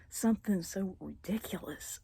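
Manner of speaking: near tears. Real, not acted. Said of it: "I'm not getting too emotional".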